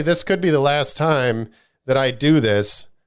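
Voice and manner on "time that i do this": normal talking voice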